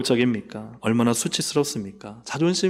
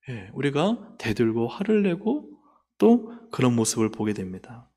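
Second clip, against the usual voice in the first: ordinary talk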